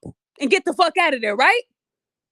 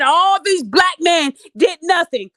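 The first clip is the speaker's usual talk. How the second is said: shouted quote; slower than usual. Retold or imitated. Quoting the woman's outburst.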